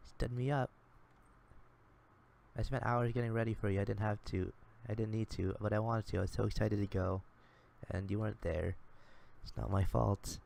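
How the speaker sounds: hurt Sherman. Acted. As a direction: scold him for standing her up. Sherman scolds him for the no-show.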